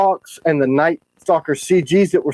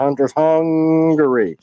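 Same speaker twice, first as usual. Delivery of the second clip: slow deliberate repeat; much slower than usual. Shown as a demonstration. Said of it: "I thought you were gonna say hungover".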